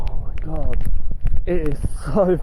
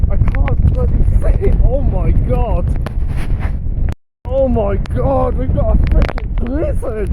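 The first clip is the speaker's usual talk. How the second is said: excited; 5 semitones higher, 3 dB louder than usual. Real, not acted. Caught in sudden blizzard.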